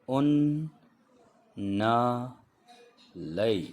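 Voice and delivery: teacher drills the row aloud, one by one; letter by letter drill. Shown as a demonstration. Teacher reviewing the second row of letters aloud, slow drill. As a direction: call each letter clearly with a pause between. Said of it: "दूसरी line को एक बार दोहराते हैं".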